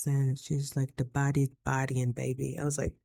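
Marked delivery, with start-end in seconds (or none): 1.0-2.6 lightly imitated Jamaican accent, lower and softer; a hint of a Jamaican woman's accent. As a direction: retell it with a touch of Jamaican accent. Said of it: "She had this great accent".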